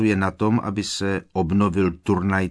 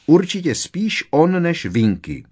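stubbornly; 9 semitones higher, 7 dB louder than usual. A narrator's reading. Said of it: "řekla Hermiona zarytě".

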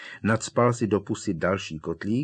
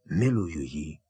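eager; 3 semitones lower than usual. A narrator's reading. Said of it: "opakoval dychtivě Ron".

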